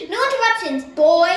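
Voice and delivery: loud, high furious yell; shouting the new boy down in anger; angry shout. A narrator's reading. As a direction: shout him down. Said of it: "Caleb shouted".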